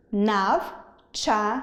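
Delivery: «Навчання» drawn out slowly by syllables; «Навчання» split into three slow syllables, нав-чан-ня; slow syllable demo. Shown as a demonstration. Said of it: "Три склади". («Навчання» повільно по складах)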